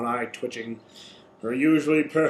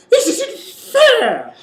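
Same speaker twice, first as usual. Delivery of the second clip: shrill, very high, very loud, full-volume angry shout; 8 dB louder than usual. Voicing Chrysalis losing a fight in a game: shouting angrily. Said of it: "Chrysalis shouts, stomping her foot".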